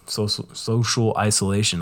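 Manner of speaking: speaking around a retainer; slightly slurred through retainers; wearing a retainer. Real, not acted. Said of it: "I have such a hard time saying that with my retainers in".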